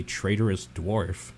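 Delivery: surprised. Acted.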